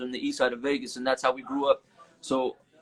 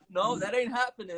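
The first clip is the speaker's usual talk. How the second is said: mock uncles forbidding; 8 semitones higher than usual. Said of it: "they're like".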